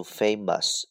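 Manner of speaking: British English famous; British pronunciation. Shown as a demonstration. Teacher showing learners the British reading, British "famous" with a reduced ending. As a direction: say "famous" the British way, FAY-muhs. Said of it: "英式发音读".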